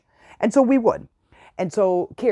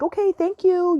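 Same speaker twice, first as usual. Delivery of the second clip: mildly surprised thanks; 11 semitones higher than usual. Retold or imitated. Second toy arrives.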